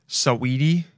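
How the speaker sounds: A rapper's name said suh-WEE-tee; name pronunciation. Shown as a demonstration. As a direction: say the name in three syllables, middle one stressed. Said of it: "That's how you say it".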